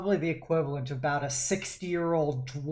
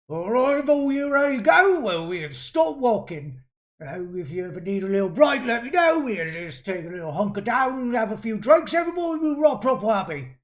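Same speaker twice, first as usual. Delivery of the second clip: gruff dwarf soldier; 4 semitones higher, 4 dB louder, faster than usual. Acted. GM voices dwarven corporal.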